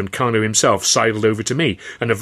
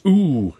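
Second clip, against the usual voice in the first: crowd's ooh; 6 semitones higher, 4 dB louder than usual. Acted. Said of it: "A spontaneous".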